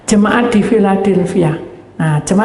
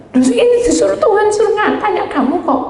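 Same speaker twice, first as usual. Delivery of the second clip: mock high insistence; 12 semitones higher than usual. Preacher voicing herself to woman.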